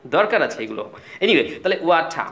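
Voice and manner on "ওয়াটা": ওয়াটা with an open final "tah"; British silent r. Shown as a demonstration. Teacher recapping water for learners, ওয়াটা with no r. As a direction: say ওয়াটা slowly, dropping the r. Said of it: "র সাউন্ডটি silent হয়ে যায়".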